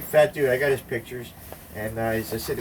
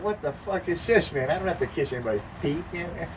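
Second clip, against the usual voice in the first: shocked protest; 6 semitones higher, 3 dB quieter than usual. Retold or imitated. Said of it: "And Ram Dass is going".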